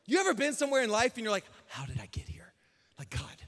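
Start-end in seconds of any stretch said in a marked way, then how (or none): 1.7-3.4 low, soft, puzzled aside; bewildered aside. Retold or imitated. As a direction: drop your voice, wondering to God. Bewildered private prayer, voiced aside.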